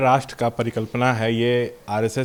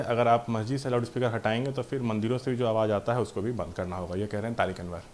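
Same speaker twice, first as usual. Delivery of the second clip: brisk reporter wrap-up read; news report. Acted. Reporter closing a story for ABP News, crisp news read. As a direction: sign off like a TV field reporter.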